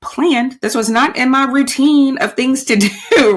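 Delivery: rising, disbelieving complaint; half-joking dismay; exasperated disbelief. Retold or imitated. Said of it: "I'm just like".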